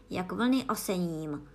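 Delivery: slow, lightly voiced Gryphon, dropping at the end; low instruction. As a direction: announce the title in a low, measured voice. Gryphon names the poem, ordering her. (pomalu a níže, pokyn)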